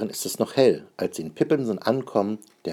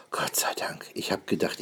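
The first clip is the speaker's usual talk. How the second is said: geflüstert; 5 dB quieter than usual. Acted. Mutter nach lauter Musik.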